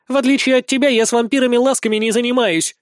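high, taunting show-off voice; mocking, affected. A narrator's reading. Tigress taunting a rival about vampires, mocking and affected. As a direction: put on airs and needle her. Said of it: "кривляется тигрица".

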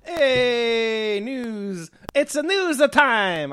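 put-on loud, high, drawn-out Italian accent; playful Italian accent. Co-host announcing the news segment, playful Italian accent. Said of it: "said that in a Italian accent".

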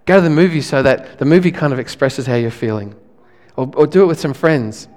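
ordinary talk, nothing marked

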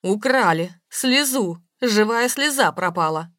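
loud, drawn-out lament; distraught. A narrator's reading. Robbed woman tells her lover of the theft, distraught. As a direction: wail the loss out slowly and loudly.

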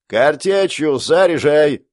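медленно, громко: «заряжай»; растянуть приказ на всю батарею; протяжный крик команды. Acted. Генерал снова командует. (генерал командует расчёту, протяжный крик)

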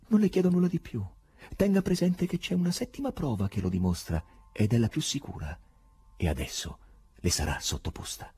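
high, odd foreign professor, amused and exasperated; eccentric professor voice. Acted. The professor mocks the poet, in a high strange voice.

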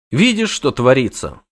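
high, fast, panicky chatter; jittery poet begging his friend; frantic poet. Acted. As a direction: babble in a panic to flee. Voiced poet character.

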